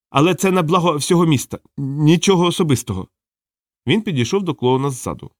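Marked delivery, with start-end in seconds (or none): 0.1-3.1 high-pitched, self-justifying plea; high apologetic assassin; apologetic killer. A narrator's reading. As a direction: excuse yourself to your victim in a higher voice. Hooded killer justifies himself to victim.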